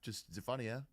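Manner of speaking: quick, cheeky rattle; fast teasing. Retold or imitated. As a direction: tease him at a quick clip. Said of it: "So I go".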